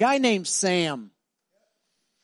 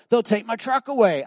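pleading youth; 7 semitones higher, 6 dB louder than usual. Retold or imitated. Youth fears trouble, retold.

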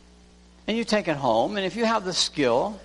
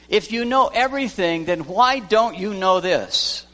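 voicing a scolding apostle, only lightly; 2 semitones higher than usual. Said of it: "scolding manner".

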